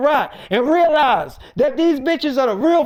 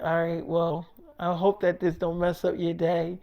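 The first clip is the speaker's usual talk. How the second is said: much softer, low flirty murmur; 7 semitones lower, 9 dB quieter than usual. Retold or imitated. Erica to David on the phone, soft flirty murmur. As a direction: coo it down the phone.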